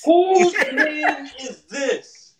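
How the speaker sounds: high, loud, slow scream. Pretend. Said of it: "That's how you do it".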